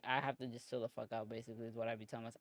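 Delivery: rapid-fire, running the words together; quick tumbling self-talk; talking really fast. Real, not acted. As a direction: rush through it without a breath. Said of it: "I'm talking really fast right now".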